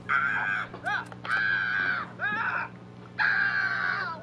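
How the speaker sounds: repeated mock screams, some held long; imitated screaming fit. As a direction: scream in bursts like a kid mid night terror. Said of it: "starts screaming in the middle of his room".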